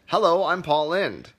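high, slow, barely disguised impression; Paul Lynde. Shown as a demonstration. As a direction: draw out a mock celebrity introduction.

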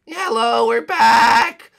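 loud announcing hello; calling out. Acted. Arriving at the queen's door, calling out loud. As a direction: burst in calling loudly. Bursting into Mermaid Island.

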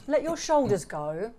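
slowing into a light yoga-teacher voice; hint of a relaxation coach, easing off; yoga instructor. Playfully telling the co-host to relax, mock yoga voice. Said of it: "I just got all yoga then".

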